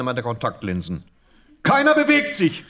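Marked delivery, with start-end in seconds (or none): 1.6-2.7 high, loud cry of panic; panicked shout. Acted. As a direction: call out in alarm, pitched way up. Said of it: "rief ich in meiner Panik".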